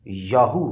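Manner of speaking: "याहू" as two long syllables, yaa-hoo; pronunciation demo. Shown as a demonstration. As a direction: present "याहू" on its own as yaa-hoo, ending on a rise. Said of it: "जिसका तलफ़्फ़ुज़ है".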